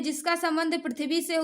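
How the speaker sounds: normal talking voice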